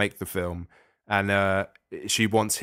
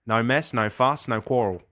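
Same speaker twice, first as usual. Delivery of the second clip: put-on Australian accent. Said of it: "you were indulging your Australian accent there".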